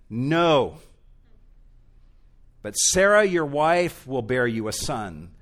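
loud, firm declaration with NO hit hard; God overruling a doubtful plan, firmly; emphatic no. Acted. God answering Abraham's alternative plan, loud and emphatic. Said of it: "God is emphatic in his response".

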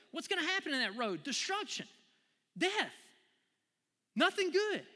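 very high, loud, strained warning; voicing God. God crying out the dangers of the road, high and strained. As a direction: cry out the danger like a desperate father. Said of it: "And God's like".

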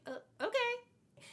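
high, slow, unsure okay; lightly voiced uneasy teen; mock hesitant girl. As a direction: drag out a doubtful okay. Imitating hesitant Jenny.

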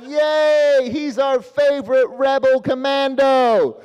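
high, loud, drawn-out cheering; mock kids' cheer. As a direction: cheer like thrilled children. Kids cheer Han Solo.

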